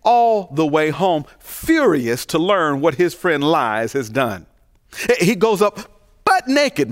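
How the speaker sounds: lightly voiced comedian riffing on a naked walk home; a hint of an indignant stand-up rant; Bernie Mac voice. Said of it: "in my Bernie Mac voice".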